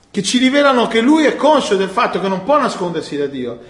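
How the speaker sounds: normal talking voice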